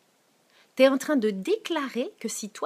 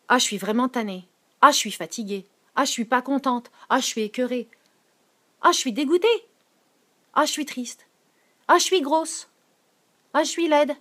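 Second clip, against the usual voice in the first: whiny complaints; 4 dB louder than usual. Retold or imitated. Imite plaintes répétées.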